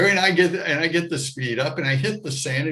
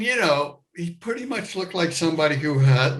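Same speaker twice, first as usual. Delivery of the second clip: ordinary talk, nothing marked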